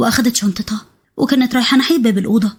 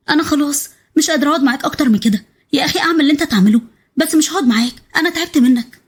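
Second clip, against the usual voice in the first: lightly voiced weary wife; 4 semitones higher than usual. Hams's voice, fed up.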